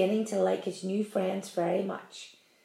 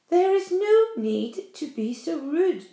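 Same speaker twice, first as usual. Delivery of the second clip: cold; 7 semitones higher, 3 dB louder, slower than usual. A narrator's reading. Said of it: "she said coldly".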